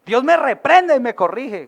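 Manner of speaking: slow, glad proclamation; a congregation repeating happily; excited. Shown as a demonstration. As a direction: savour each word with joy. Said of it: "Dígale, así emocionado".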